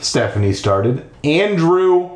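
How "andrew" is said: higher, emphatic correction; correcting. Acted. Ghost boy correcting Stephanie, emphatic. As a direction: correct firmly with pitch lifted. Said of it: "he corrected her".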